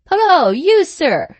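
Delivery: loud, high fierce call; fierce shout. A narrator's reading. Sam hailing the stranger in the court, fierce shout. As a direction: holler it fiercely at him. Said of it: "shouted Sam fiercely".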